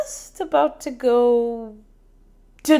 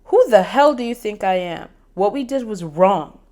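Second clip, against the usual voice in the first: angry rant; 4 dB louder than usual. Acted. Angry confrontation.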